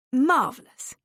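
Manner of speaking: high, loud cry of delight; delighted exclaim. Acted. Daniel praises Haley's rosy cheeks, high and delighted. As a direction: gush over her new look.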